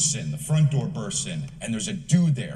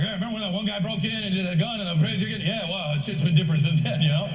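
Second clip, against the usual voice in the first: casual recollection; 8 semitones higher, faster than usual. Acted. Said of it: "You're like".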